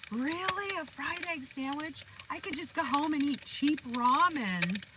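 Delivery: high incredulous mock voice; imitating Michael. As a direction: play him baffled by the offer. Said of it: "When I offered it to him".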